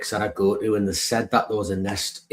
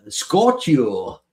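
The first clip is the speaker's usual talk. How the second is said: put-on Scorchio called out loud in a Geordie accent; Geordie Scorchio catchphrase; 3 semitones higher, 5 dB louder than usual. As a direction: belt out Scorchio as the Geordie footballer. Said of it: "he would go like".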